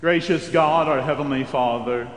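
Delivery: ordinary talk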